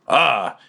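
short acted "ah" from the golem; a brief cry with a pitch jump; golem exclamation. Golem's exclamation while trying to write.

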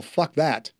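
usual speaking voice

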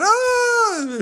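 long, very high "oh" of a crowd; imitated crowd cheer. Fan as a home run gets hit, mock cheer. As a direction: hold one high cheering note.

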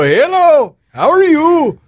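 high, sing-out imitated Indian accent. Friend Deepak walking into seven eleven, imitated Indian accent. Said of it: "he was Indian".

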